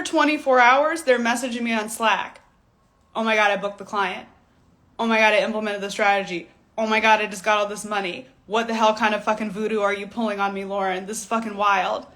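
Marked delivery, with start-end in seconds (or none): 3.1-12.1 excited students. Retold or imitated. Students' excited Slack messages quoted.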